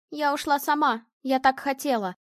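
ordinary delivery

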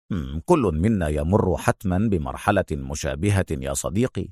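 low, soft, consoling; sympathetic Adham. A narrator's reading. Adham comforts his hurt friend, softly sympathetic. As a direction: console gently after a small hum. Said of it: "ابتسم أدهم في إشفاق".

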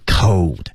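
"cold" with a long, full "oh" glide; full diphthong. Shown as a demonstration. Teacher models vowels for dubbing students, full diphthong in "cold". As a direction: stretch and round out the vowel in "cold". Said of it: "这个双元音就非常饱满".

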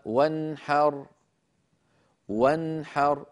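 "وانحر" with a short clear noon straight into haa; clear izhar. Shown as a demonstration. Teacher showing noon before haa, "وانحر" in careful clear izhar. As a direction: recite "وانحر" carefully, no added hum on the noon. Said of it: "ولا زيادة في زمنها".

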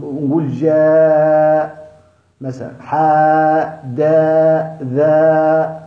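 جاء، حاء، دا، ذا drawn out slow with an open alif; slow letter demo. Shown as a demonstration. Teacher slowly sounds the letters for students, slow and open. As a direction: stretch each syllable slowly, alif wide. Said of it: "نعدي الخاء ونقول".

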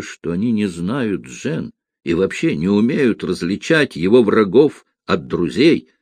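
plain reading voice

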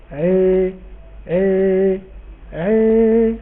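عي with a vowel between fatha and kasra; عي voiced with the open-front vowel of عبيد; blended vowel. Shown as a demonstration. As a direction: say عي as the Egyptian rural blend. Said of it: "ما قلتش عي".

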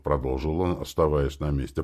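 usual speaking voice

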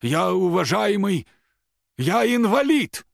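very high, loud, slow protest; indignant shriek. A narrator's reading. The old man cries out at Рома in loud protest. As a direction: cry out your status.

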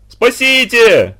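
very high, loud panicked scream; desperate cry for help. A narrator's reading. Boy alone at the hut screaming in terror. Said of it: "опять завопил Лёшка".

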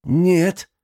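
a high sharp no; sharp refusal. Acted. Benedict refuses the old man, a sharp high no. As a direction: cut him off, high and firm.

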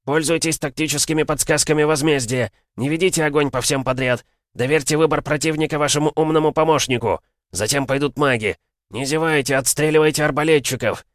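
rally the line like a wild beast; fired-up battle shouting. Acted. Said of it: "Капитан воодушевился, стал похож на дикого зверя".

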